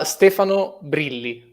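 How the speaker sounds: Stefano Brilli said properly with Italian vowels; "Stefano Brilli" in the name owner's native pronunciation. Shown as a demonstration. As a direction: say "Stefano Brilli" as an Italian would, rolled r and held l. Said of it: "How do you pronounce your name properly?".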